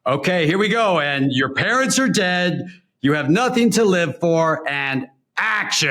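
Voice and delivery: mock director talking an actor into the scene, unhurried; Joel Schumacher. Director cueing his actor before the take, lightly imitated. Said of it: "Joel Schumacher's, like, going".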